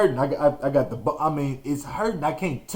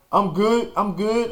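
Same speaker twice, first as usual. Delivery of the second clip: brushing it off; 7 semitones higher than usual. Retold or imitated. Kid brushing off a fall.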